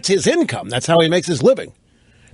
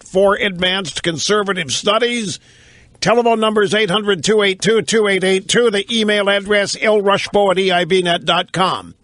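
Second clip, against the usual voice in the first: radio show opener; 4 semitones higher than usual. Real, not acted. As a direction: roll out the show intro with broadcaster flourish. Opens his radio show.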